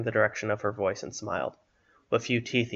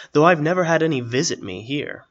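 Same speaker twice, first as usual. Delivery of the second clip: put-on higher, louder raspy old man; 5 semitones higher, 10 dB louder than usual. A narrator's reading. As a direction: speak up as a hoarse old hermit. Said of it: "the raspy voice of the man".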